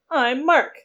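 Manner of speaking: a hint of a slick beach bum; lightly voiced cocky salesman; surfer bro voice. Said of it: "a cross between Wolf of Wall Street and California Beach Bum".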